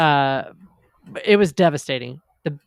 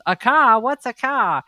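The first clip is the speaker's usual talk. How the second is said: high, baffled Australian Crocodile Dundee; 7 semitones higher than usual. Retold or imitated. Friend quoting Crocodile Dundee, baffled and high. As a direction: act puzzled by a car, Australian. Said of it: "I can only do Crocodile Dundee".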